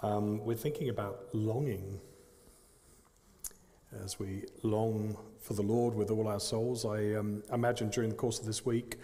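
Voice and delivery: echoey room sound; big hall echo. Real, not acted. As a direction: voice ringing in a hall. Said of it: "Is that me?".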